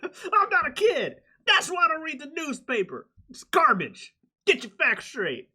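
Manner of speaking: squeaky hammed-up tirade; mock high-pitched rant. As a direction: shriek it like a defensive coach. Imitating Mike Gundy rant.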